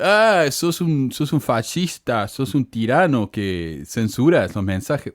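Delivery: slow, drawn-out mimicry of a complainer; mock whining accusation. Channel owner imitating commenters who call him a tyrant, mocking.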